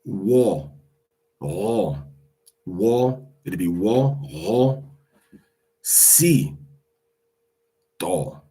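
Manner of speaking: wa, ro, si, tho broken into separate syllables. Shown as a demonstration. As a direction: sound out wa ro si tho slowly. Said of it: "pronounce it syllable by syllable".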